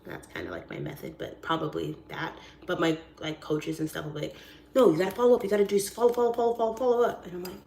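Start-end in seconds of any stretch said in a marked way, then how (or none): 4.7-7.3 insistent, repetitive pushing; lightly voiced pushy coach; nagging coach. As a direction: badger them, piling up the repeats.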